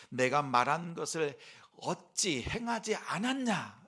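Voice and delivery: loud, rising, drawn-out reproach; mock rebuke. Preacher quotes Jesus as if scolding listeners, stern rebuke. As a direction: stretch the question into a scolding challenge. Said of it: "책망의 말씀이 아니라".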